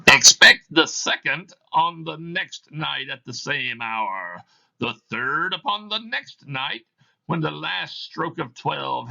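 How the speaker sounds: a chain-bound spirit intoning its doom; Marley's ghost. Acted. Reads Marley's ghost in the play.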